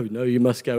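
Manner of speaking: a lightly voiced firm God; God commanding. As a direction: answer him low and unmoved. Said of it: "And he's like".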